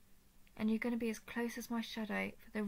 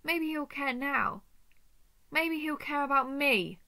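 forceful, bitter threat building louder; wounded anger; 6 dB louder than usual. Acted. Spurned lover threatening to hurt him, wounded anger.

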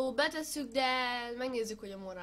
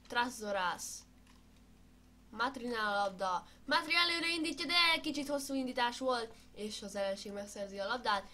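sports commentary. Pretend. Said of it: "én vagyok a kommentátor".

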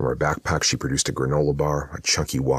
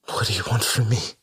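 high, frightened gasp of a question; a scared mother blurts it out; gasping in fear; 9 semitones higher than usual. A narrator's reading. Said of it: "she gasped".

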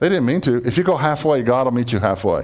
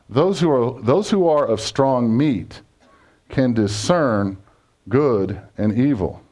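each word of the verse drawn out slowly; slow scripture reading; slower than usual. Acted. Preacher slowly reading Hebrews to the congregation, grave and deliberate. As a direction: read the verse out slowly and weightily.

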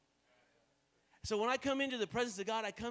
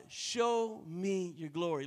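slow, earnest plea to God; 3 semitones lower, much slower than usual. Shown as a demonstration. Preacher praying slowly to God for glory. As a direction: draw out each word as a prayer. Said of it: "that's why I say to God".

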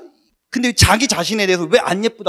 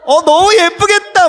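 mock cooing; 12 semitones higher, 11 dB louder than usual. Mock cooing over imagined daughter.

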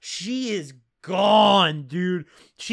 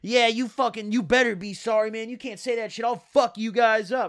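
higher-pitched imitated angry threat; mock mad as hell; 4 semitones higher than usual. Imitating the boyfriend rejecting an apology, mock anger. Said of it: "just mad as hell".

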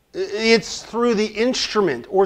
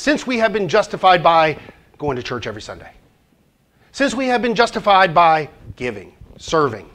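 rattled off fast, lightly mocking; fast, offhand take on the common answer; quick mock version; faster than usual. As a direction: toss off the wrong answer quickly. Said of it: "or common response?".

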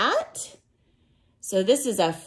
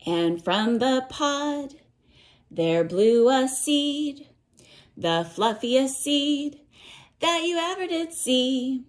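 storybook reading; 3 semitones higher than usual. A narrator's reading. Teacher reading a rainforest picture book to children, lilting read-aloud. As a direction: chant the cumulative verse to little listeners.

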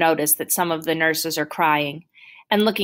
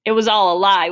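bitter accusation; 3 semitones higher, 6 dB louder than usual. Acted. Boy accuses doctor of lying.

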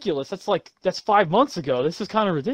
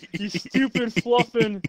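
country voice; 5 semitones higher than usual. Pretend. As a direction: try the line in a light Southern voice. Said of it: "I'll do my good country voice this time".

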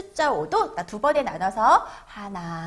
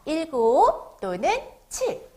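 slow, stretched number words; read-along model; 3 semitones higher, slower than usual. Shown as a demonstration. Teacher has children read the number seven along, slow read-along model. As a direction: draw it out so children can repeat. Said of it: "같이 따라 읽어보도록 할까요".

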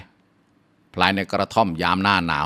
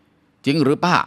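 higher, stunned question; shocked; 4 semitones higher, slower than usual. Acted. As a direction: gasp it out in disbelief. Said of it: "สำเนียงตกใจ". (สำเนียงตกใจถามป้า เสียงสูงขึ้น)

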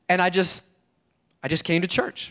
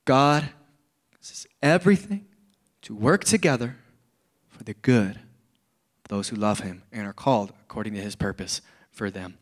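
slow, word by word; real slow; 6 semitones lower, 4 dB quieter than usual. Shown as a demonstration. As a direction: spell it out slowly for them. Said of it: "let me say it real slow".

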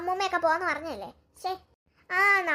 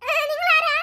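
scared challenge; 6 semitones higher, 4 dB louder than usual. Acted. Girl confronts a stranger.

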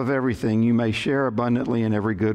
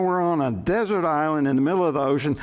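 acted panicked shout; 3 semitones higher than usual. Panicked castaway arguing with his calm companion, agitated mock shout. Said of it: "shouted the first man".

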